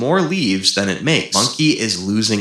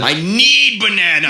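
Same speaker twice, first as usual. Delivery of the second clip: higher, louder whiny demand; desperate monkey shout; 9 semitones higher, 4 dB louder than usual. Acted. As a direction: howl for the banana.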